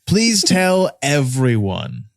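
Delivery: high, laughing hammy announcement of own death; overacted death scene. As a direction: ham up a dying man's news. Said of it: "be sure to be shouting that from the rooftops".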